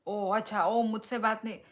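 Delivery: mock offended. Viewer says she won't talk to him.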